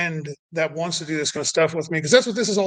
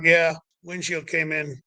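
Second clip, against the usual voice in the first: calm even tone; slower than usual. Retold or imitated. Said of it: "that was the voice".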